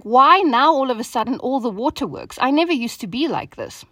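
acted-out touch of irritation; retold irritation. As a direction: complain as if fed up with yourself. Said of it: "this really irritated me tremendously".

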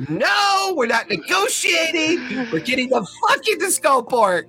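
high-pitched, hammed-up angry shouting; exasperated outburst. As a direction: shout it high, fed up with negotiating. Character steps up, refuses to negotiate.

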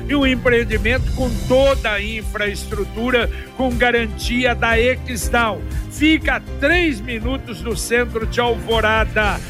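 upbeat radio ad read; hard sell ad. Acted. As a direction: sell it with punchy enthusiasm. Live radio ad read over music.

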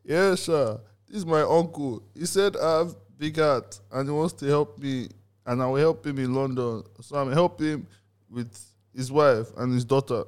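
put-on lightly high boy voice. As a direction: lift the pitch like a young boy.

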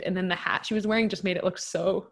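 words interrupted by a burp; burping while talking. Real, not acted. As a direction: talk through a small burp. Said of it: "Sorry, I'm, like, burping as I'm t".

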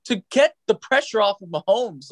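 high, pleading fan plea; excited pleading. Real, not acted. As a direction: beg for it, voice way up. Fan begging team for trade.

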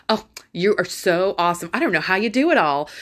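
a hint of a fawning fan praising her; gushing praise. Telling listeners how people praised her, mock gushing. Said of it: "everybody would, like, applaud it".

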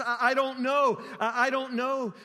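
stammered start, mildly agitated; distraught, helpless repetition. Retold or imitated. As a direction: imitate a lost woman repeating herself. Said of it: "every time she opens her mouth".

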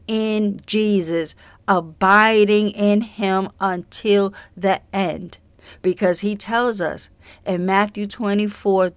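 earnest preaching warning of judgment; doomsday street preacher. Acted. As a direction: urge the flock, steady and grave. Sermon exhortation, judgment warning.

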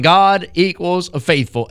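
God equals faithful, said slowly and deliberately; equals in place of is. Shown as a demonstration. Preacher rewording the verse as God equals faithful. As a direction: spell it out as an equation. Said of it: "if you wanted to say it like this".

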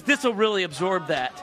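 imitating a serious stewardess; retold matter-of-fact offer; dead serious. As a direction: deliver it straight, no joke. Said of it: "was dead serious".

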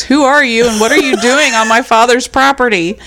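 lightly voiced drunk teen yelling; a hint of a drunk rich kid. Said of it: "starts yelling in his drunk voice".

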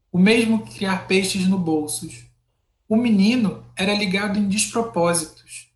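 measured, expressive poetry recital; poem reading. Acted. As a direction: read it like a poem to listeners. Reads a poem aloud.

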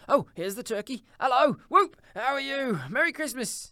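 high, loud whooping hello; jubilant greeting. Acted. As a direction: hail them with overflowing glee. Scrooge joyfully hails the arriving turkey.

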